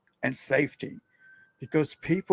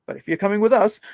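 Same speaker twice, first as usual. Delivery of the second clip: cousin laying down the rule; 6 semitones higher, 5 dB louder than usual. Retold or imitated. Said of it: "My cousin's like".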